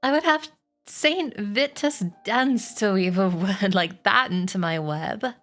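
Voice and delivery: mild, drawn-out indignation; understated storybook disgust. Acted. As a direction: scoff slowly at the suggestion. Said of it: "said Charlotte in disgust".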